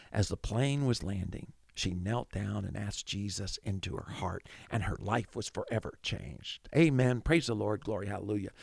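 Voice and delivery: lightly put-on solemn testimony; preacher story. Pastor giving the idealized ending, mock-pious preacher telling. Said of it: "the preacher story would be".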